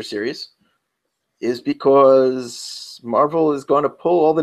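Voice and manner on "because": thick New York "because", said pih-KAWZ; "because" with a heavy New York vowel; New York accent. Real, not acted. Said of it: "New York accent came out really thick on the because".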